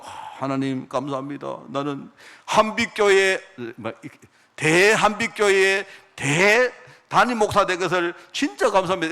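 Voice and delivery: mock-proud pastor thanking God for his big church; smug boast. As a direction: gloat over your own success, drawn out. Preacher mocks a boastful pastor.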